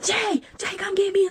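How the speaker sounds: imitating the neighbor screaming for Jay; mock scream. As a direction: ham up her cry for backup. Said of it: "she started screaming".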